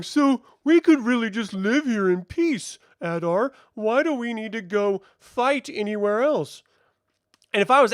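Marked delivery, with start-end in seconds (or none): 0.0-6.6 mock orc. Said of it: "of the orc going".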